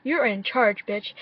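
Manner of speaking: hype cheering. Retold or imitated. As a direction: cheer her on like a stan.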